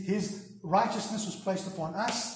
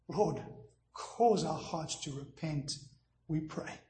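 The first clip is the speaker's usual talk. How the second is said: measured public prayer with long pauses; sincere pastor's prayer, phrase by phrase; closing prayer. Real, not acted. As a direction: lead the congregation in earnest prayer.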